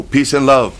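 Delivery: put-on high, loud accented pleading, LOVE falling; pleading surrender. A narrator's reading. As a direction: beg him to stop, palms up. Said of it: "He said in English".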